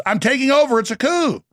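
lightly voiced cartoon villain taking over; a touch of cartoon villain; imitating Carlos. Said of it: "and he goes".

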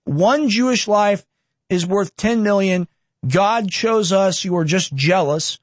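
slow, deliberate quote with every word weighed; read out with weight. Acted. Reading the lawyer's quote to viewers, slow and weighted. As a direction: read it slowly, letting each word land. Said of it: "I'll read this really quick".

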